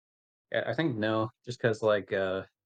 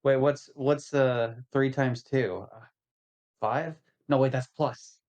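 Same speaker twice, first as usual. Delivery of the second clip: Dallas impression; slower than usual. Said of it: "Are you making fun of my math".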